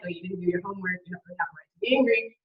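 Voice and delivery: a touch of dismissive brush-off, quick; the wrong response, lightly dismissive. Shown as a demonstration. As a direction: wave off their anger a bit fast. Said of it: "You're not gonna say that".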